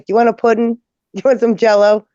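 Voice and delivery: bright high nurse voice; sing-song caregiver. Retold or imitated. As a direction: coax her like talking to a child. Coaxing elderly patient.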